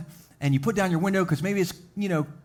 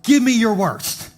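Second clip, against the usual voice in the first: heroic challenge; 3 semitones higher, 4 dB louder, much slower than usual. Retold or imitated. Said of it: "And you say".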